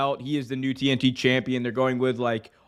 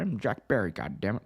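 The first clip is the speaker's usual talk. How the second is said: mock Jack Perry, dropping much lower on goddammit; lightly hammed-up wrestler sign-off; Jack Perry impression; 5 semitones lower, 5 dB quieter than usual. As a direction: imitate the wrestler, growling the curse low and soft.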